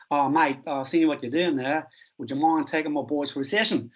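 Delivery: a light, badly faked Australian accent; mock Australian twang, barely there; terrible Australian accent. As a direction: ham up a mate-y Aussie coach, not very well. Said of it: "Terrible Australian accent".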